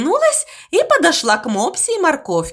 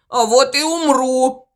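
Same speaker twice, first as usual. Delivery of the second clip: insisting. Acted. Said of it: "настаивал Мопси".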